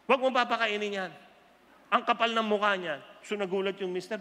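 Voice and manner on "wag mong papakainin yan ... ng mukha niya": angry wife. Acted. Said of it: "Galit si Misis ngayon".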